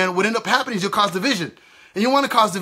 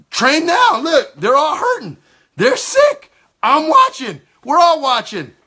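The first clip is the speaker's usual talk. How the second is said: much higher and louder, pleading urgency; urgent exclaim; 5 semitones higher, 4 dB louder, slower than usual. Retold or imitated. Preacher urging a minister to heal the sick, urgent raised voice. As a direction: insist they act right now. Retold clash over healing the sick.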